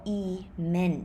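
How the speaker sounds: "email" ending in n, as ee-men; offered reading. Shown as a demonstration. Teacher offering learners a last option, slow n-ending reading. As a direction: say "email" slowly with a final n. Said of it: "what do you read it?".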